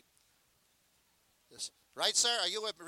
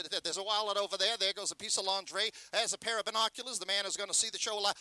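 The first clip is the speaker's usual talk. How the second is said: butchers calling out; 2 semitones higher than usual. Retold or imitated. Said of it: "you'd send the butchers out".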